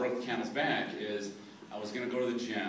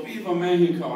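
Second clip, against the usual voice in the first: louder rally shout from the parade; marcher's call; 5 semitones higher, 9 dB louder than usual. Retold or imitated. Marcher calling to the crowd, a louder rally shout. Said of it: "one of them would go".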